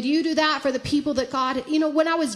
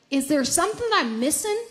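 sincere, searching question to God; questioning, not doubtful; 3 semitones higher than usual. Retold or imitated. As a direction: wonder honestly, without doubting. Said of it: "but in a questioning way".

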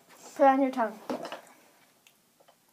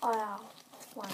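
cheeks stuffed full; 8 dB quieter than usual. Real, not acted. Marshmallows stuffed in mouth.

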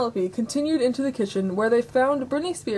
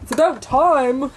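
exasperated; 4 semitones higher, 5 dB louder than usual. Acted. Ken fed up waiting for pancakes, exasperated. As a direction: get louder and higher, dragging the last words.

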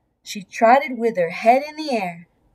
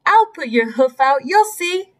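squeaky piglet; 3 semitones higher than usual. Acted. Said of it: "Penelope squeaked".

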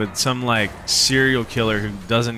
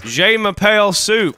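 mock French; 7 semitones higher, 3 dB louder than usual. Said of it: "We're French".

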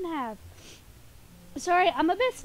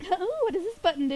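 lightly voiced Dee Dee, higher and lilting; Dee Dee impression; 5 semitones higher than usual. Streamer playing Dee Dee at a button, lightly higher voice. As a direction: play at a higher-pitched, curious cartoon girl. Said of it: "I can do Dee Dee's voice".

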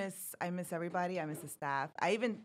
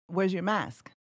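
put-on child asking; 4 dB louder, slower than usual. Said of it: "my little one telling her".

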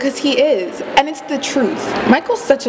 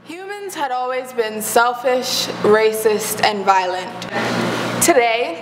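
measured, formal address with deliberate pauses; preachy monologue. Acted. Student filmmaker telling viewers to use media, preachy monologue. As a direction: lecture the audience in set phrases. Delivers filmed speech.

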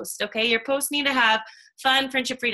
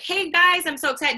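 bright, higher mock announcement; excited post; 6 semitones higher than usual. Shown as a demonstration. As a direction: read it like a thrilled Facebook post. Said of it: "like, just announce".

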